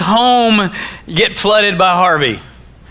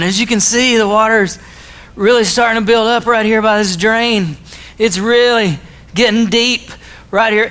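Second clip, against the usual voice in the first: mock weatherman; 2 semitones higher than usual. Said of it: "We're gonna go make some weatherman videos".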